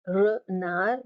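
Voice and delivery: renard as re-nar, no D; French renard in two beats, re-nar; silent D. Shown as a demonstration. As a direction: drop the D at the end of renard. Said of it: "the D is silent".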